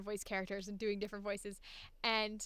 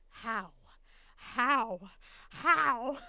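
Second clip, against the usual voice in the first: building how; 6 dB louder, much slower than usual. Retold or imitated. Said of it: "I'm like".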